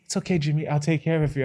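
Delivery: even, unhurried monotone voice; a droning calm accountant, unbothered. Retold or imitated. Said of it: "his monotone voice".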